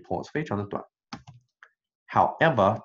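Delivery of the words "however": however said with firm stress and fall. Shown as a demonstration. Teacher stresses the contrast word however. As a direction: lean on however as a turn. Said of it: "重读，转折".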